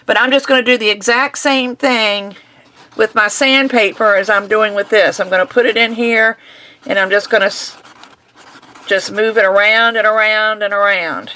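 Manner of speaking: muffled behind a face mask; speaking through a dust mask. Real, not acted. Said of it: "I have to wear a mask, and I don't talk very well".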